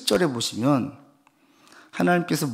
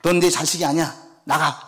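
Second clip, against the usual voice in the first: louder scolding parent, stress on 내; angry parent; 4 semitones higher, 4 dB louder than usual. Retold or imitated. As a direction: hurl it like a parent disowning a child. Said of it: "부모님 볼 때 ... 얘기하잖아요".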